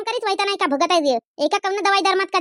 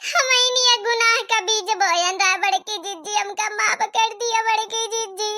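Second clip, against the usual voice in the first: crying confession. Acted.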